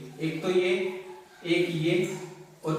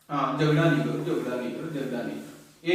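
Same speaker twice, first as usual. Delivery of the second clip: soothing; 6 semitones lower than usual. Real, not acted. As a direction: settle them down gently. Calming kids after a fight.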